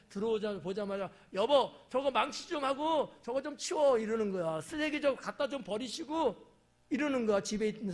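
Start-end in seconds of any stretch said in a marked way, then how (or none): 1.3-4.0 higher, louder nagging orders; bossy wife. Acted. Wife orders husband home from work, loud nagging. Spouse bossing tired husband. 4.6-6.5 bossy wife. Acted. Spouse bossing tired husband.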